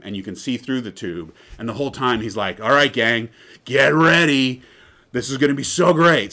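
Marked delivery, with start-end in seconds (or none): 2.6-6.3 hyped host. Retold or imitated. Imitating hyped video host.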